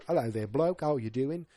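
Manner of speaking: hammed-up British bloke; cheery mock-British greeting, laid on thick; overdone British accent. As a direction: play up a jolly British accent. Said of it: "going for the overly blo".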